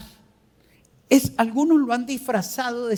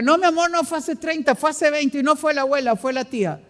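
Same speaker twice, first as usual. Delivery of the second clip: correcting spouse; 5 semitones higher, 4 dB louder, faster than usual. Retold or imitated. Spouse correcting partner's story.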